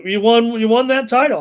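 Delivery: fast, emphatic exclamation; excited. Real, not acted. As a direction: blurt it out, amazed. Host exclaiming over big contract news.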